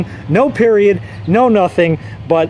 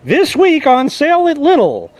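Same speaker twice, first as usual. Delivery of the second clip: higher-pitched, lightly mocked overhead page; a hint of supermarket announcer; imitating store announcement; 5 semitones higher than usual. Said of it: "they had an overhead page".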